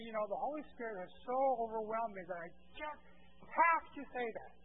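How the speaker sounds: lightly acted overwhelmed plea; mock excuse. Preacher voicing a man excusing his outburst, mock overwhelmed. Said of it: "excuse himself and say".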